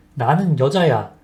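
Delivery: ordinary delivery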